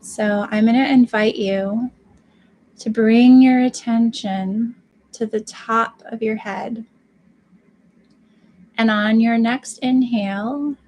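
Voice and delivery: slow, measured meditation guidance with pauses between phrases; guided meditation. Real, not acted. Guide inviting live viewers to open the crown chakra, guided meditation. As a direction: lead them through it unhurriedly, phrase by phrase.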